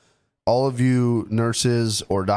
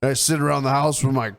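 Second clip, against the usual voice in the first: mocking imitation; 3 semitones higher than usual. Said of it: "you're like".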